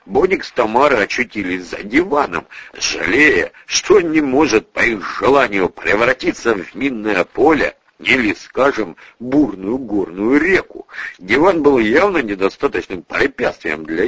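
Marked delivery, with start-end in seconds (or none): none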